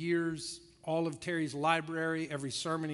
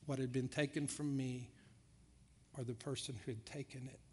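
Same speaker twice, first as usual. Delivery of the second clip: hushed; 6 dB quieter than usual. Retold or imitated. Terry's tearful confession retold.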